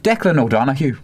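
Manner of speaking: light Irish accent on the name; a hint of an Irish accent. Shown as a demonstration. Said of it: "I was about to do that in an Irish accent then".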